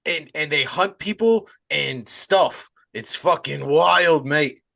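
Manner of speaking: mock-Australian with drawn-out words; a failed accent gone Australian; botched Australian accent. Host pitching a werewolf film, botched Australian accent. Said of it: "I just went back to Australian".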